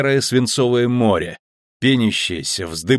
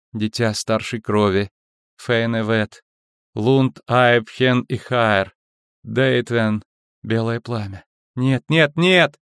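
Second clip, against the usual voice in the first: trance rising to panic; slower than usual. Acted.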